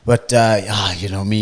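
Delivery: lightly mimicked loud talker; loud bank manager. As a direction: retell it in a mildly loud voice. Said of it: "Loud as fuck in the bank".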